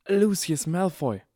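high, drawn-out awe; gasped. A narrator's reading. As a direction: gasp the name as a star-struck fan. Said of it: "keuchte Harry Potter".

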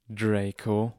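understated controlled anger; restrained menace from a father; deep, very angry. A narrator's reading. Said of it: "in tiefer und sehr wütender Stimme".

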